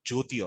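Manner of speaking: "Jyoti" with a soft j opening; possible reading. Shown as a demonstration. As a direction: say "Jyoti" as JO-tee. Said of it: "some of you all pronounce it as".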